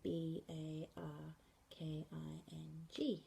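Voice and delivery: slow letter by letter spelling. Shown as a demonstration. Teacher finger spelling a place name, slowly. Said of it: "you would finger spell the name".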